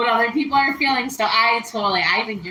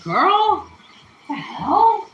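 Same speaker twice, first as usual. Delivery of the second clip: higher, louder sassy retort, laughing; mock sassy; 9 semitones higher, 5 dB louder, much slower than usual. Imagined viewer scolding her cooking, mock sassy with a laugh. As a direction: play a viewer's sassy outrage. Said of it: "don't be all like".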